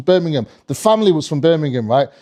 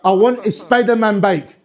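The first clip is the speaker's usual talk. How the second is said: put-on slow, blunt Scottish kid; deadpan demand with a Scottish accent; 2 semitones higher, slower than usual. Scottish kid skipping the hello, blunt Scottish accent. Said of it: "this one Scottish kid".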